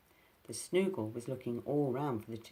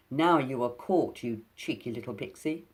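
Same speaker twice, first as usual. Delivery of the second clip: gloating; 7 dB louder than usual. Acted. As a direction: savour the catch. Snoogle gloating over trapped pixie.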